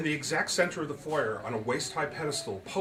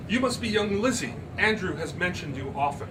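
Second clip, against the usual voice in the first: higher, louder grand lady; society lady; 6 semitones higher, 4 dB louder than usual. Acted. Miss Turpin greeting Lizzie, grand and high. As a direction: purr it like a painted hostess.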